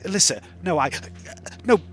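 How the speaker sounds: high, desperate pleading; pleading in fear. Acted. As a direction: beg for your life. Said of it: "He says".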